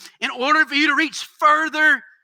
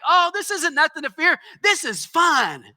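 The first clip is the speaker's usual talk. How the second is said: carefree dad; 5 semitones higher than usual. Retold or imitated. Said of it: "my dad would be walking around the room like".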